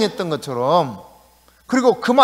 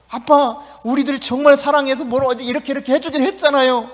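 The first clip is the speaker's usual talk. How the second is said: put-on pleading child; 6 semitones higher than usual. Child keeps pleading with father.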